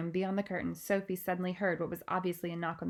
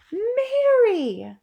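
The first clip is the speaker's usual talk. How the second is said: much higher, louder sharp cry of the name; sharp call; 12 dB louder than usual. Acted. Queen as the maid drops the tray, sharp. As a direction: snap the name to catch her. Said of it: "rather sharply".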